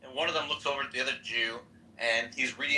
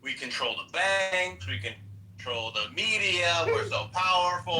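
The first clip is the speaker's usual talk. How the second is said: slow, relishing mock Jewish accent; Jewish joke character; 4 semitones higher, slower than usual. Joke character boasting to his friend, drawn-out Jewish accent. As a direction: stretch each boast out in a Jewish caricature. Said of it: "here's my Jewish joke".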